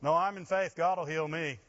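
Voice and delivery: mock pious self. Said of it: "I'd have said".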